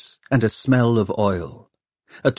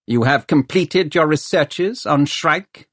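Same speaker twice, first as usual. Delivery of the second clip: cold Lord Mayor; 7 semitones higher than usual. Acted. Crome's cold questioning.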